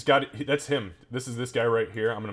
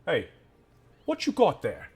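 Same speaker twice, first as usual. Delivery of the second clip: suspicious guard; 7 semitones higher than usual. Acted.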